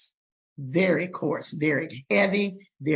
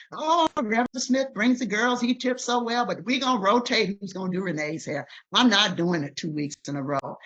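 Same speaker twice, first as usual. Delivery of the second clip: gossiping hairdressers; 5 semitones higher than usual. Retold or imitated. Mimicking beauty shop ladies.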